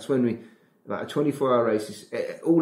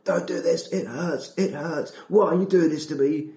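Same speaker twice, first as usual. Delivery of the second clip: mock whining subconscious; 6 semitones higher than usual. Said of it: "your subconscious screams at you".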